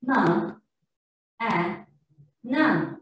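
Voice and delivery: M and N said as "muh, nuh"; spaced letter sounds, schwa on M and N; wrong letter sounds. Shown as a demonstration. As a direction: sound out M, A, N with "uh" after each consonant. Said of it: "I mean the wrong sound".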